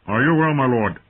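uneasy, lifted voice; nervous retainer. A narrator's reading. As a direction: check on your master nervously. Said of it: "glanced nervously at the direwolves as he spoke".

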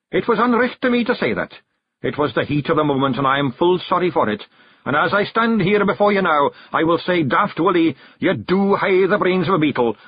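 earnest Scots chief; solemn half-apology; Rob Anybody. Acted.

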